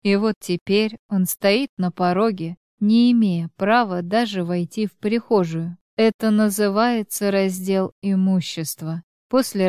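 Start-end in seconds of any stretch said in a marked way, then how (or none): none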